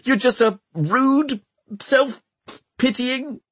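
high, heated accusation; angry outburst. Acted. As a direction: spit the insult out. Hester shouting at Tom.

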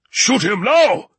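high, loud, drawn-out scream; screamed order. A narrator's reading. Riegel screaming at his men to fire, frantic order. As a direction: scream it with each word stretched. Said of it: "He screamed".

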